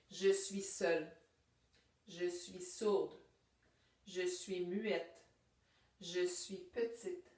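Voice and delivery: slow, deliberate recital with long pauses; poem reading. Acted. Teacher rereading the poem to point out senses, slow poem reading. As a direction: linger on each verse, slowly.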